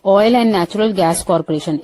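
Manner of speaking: each word laid out slowly for learners; teacher slowly unpacking a brand name; slow spelled-out expansion. Shown as a demonstration. Teacher spelling out OYO for students, slowly. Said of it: "ओएनजीसी".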